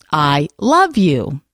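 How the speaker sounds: "I love you" with love pushed hardest, slow and drawn out; stress on love. Shown as a demonstration. Host on air showing a second reading, stress on "love". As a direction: lean into "love" and let "you" fall off. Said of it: "Based on where we put the emphasis".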